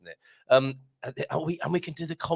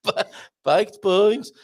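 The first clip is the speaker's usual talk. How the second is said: prompted catchphrase; 6 semitones higher, 5 dB louder than usual. Shown as a demonstration. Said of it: "say this, Frank".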